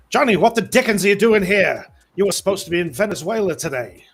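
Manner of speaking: loud, brash pulp hero. Acted. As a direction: scold a rival like an old-time hero. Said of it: "and go".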